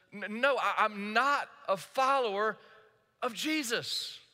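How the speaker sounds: stammer, then deny it firmly; acted protest in slow, separated phrases; insistent denial. Peter denying Jesus to a second accuser, insistent.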